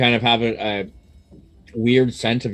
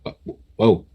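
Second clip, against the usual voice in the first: confused inner voice; 5 semitones higher, 4 dB louder than usual. Acted. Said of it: "a voice in the back of your mind kind of going".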